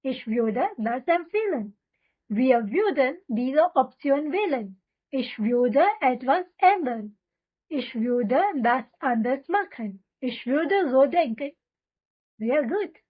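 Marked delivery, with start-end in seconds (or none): 0.0-11.5 very slow, every syllable laid out for repeating; slow drill reading. Shown as a demonstration. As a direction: read it slowly so learners can echo you. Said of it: "तो चलो मेरे साथ बोलो". (बहुत धीमे, साफ़ साफ़ दोहराने के लिए)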